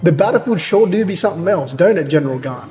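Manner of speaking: hint of a put-on Eastern accent. Officer to General Gan, lightly accented. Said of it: "He's talking like that's on period".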